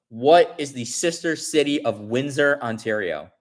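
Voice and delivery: announcing the final question to the chat; quiz host read. Shown as a demonstration. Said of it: "the fifth question ends up being".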